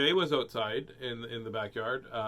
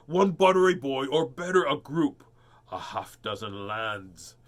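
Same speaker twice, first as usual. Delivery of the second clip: louder greedy giant voice; 3 dB louder than usual. Acted. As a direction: savour each word like a hungry giant.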